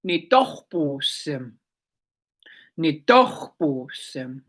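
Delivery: "nitohposim" drawn out slowly, every syllable clear; teaching "my cat" in Blackfoot, said slowly; slow Blackfoot word. Shown as a demonstration. Blackfoot teacher carefully sounding out "nitohposim". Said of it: "My cat".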